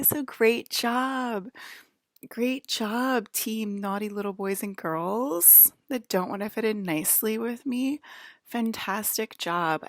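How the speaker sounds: slow, dry mock praise; sarcastic praise. Real, not acted. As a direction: praise them with heavy irony.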